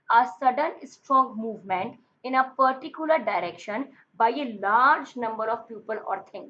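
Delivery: reading the definition out word by word, very slowly; slow dictation. Shown as a demonstration. Teacher dictating the English meaning to students, very slow and deliberate.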